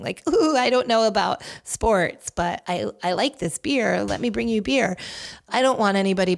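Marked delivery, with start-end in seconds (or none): 0.3-5.0 lightly put-on ditzy girl voice, a touch higher at the start; mock dumb girl. Mocking the beer ad's dumb girl stereotype, lightly voiced. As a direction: send up the clueless beer girl with a hint of airhead. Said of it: "that sort of dumb girl sort of thing".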